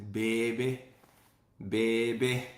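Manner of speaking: put-on "baby" as pay-bee in a light Louisiana accent. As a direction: imitate how Louisiana folks say "baby". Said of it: "I love how they say the words".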